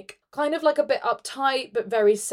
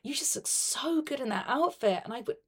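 soft seductive voice; 10 dB quieter than usual. Acted. Elf seducing Mrs. Claus.

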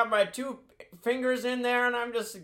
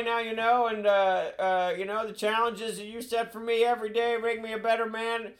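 put-on rambling old politician voice; folksy meandering old statesman; Joe impression; 3 semitones higher than usual. Same rambling impression continues.

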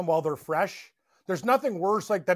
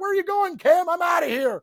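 high, louder yelled back-and-forth; retold bar shouting; 11 semitones higher, 5 dB louder than usual. Host storming out while the bar calls after him, shouting. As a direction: call it across a noisy bar.

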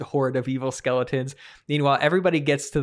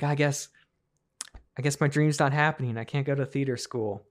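mild distraught; 4 dB quieter than usual. Acted. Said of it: "she's distraught".

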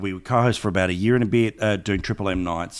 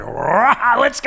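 high, pumped-up cheer; excited; 12 semitones higher, 4 dB louder, much slower than usual. Retold or imitated. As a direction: fire everyone up. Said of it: "two very similar sort of like".

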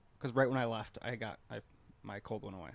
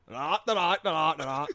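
stuttering practice; 4 semitones higher, 9 dB louder than usual. Retold or imitated. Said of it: "practicing his speech impediment".

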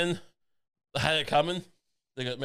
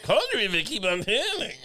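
hammed-up Peter Lorre impression; a laughing, higher take on Peter Lorre; 7 semitones higher than usual. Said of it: "Peter Lorre".

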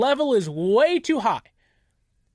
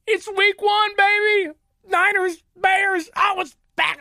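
excited; 8 semitones higher than usual. Real, not acted. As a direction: burst out with game-week joy. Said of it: "if you couldn't tell, I'm very excited".

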